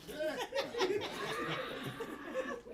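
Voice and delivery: high airless wheezing laugh; breathless wheezing laugh; silent wheeze laugh. Real, not acted. Unvoiced laugh.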